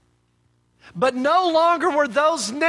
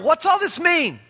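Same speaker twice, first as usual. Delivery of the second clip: perplexed; 5 semitones higher than usual. Acted. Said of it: "He's perplexed".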